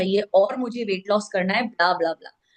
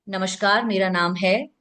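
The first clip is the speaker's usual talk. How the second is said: unhurried "मेरा नाम है", held open before the name; pause before name. Shown as a demonstration. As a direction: say "नमस्कार, मेरा नाम है" evenly, then pause. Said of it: "pause". ("मेरा नाम है" ठहरकर, फिर विराम)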